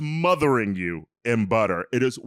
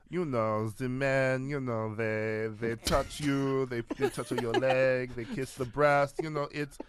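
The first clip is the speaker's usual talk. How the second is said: put-on French accent. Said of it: "I don't know what accent that was".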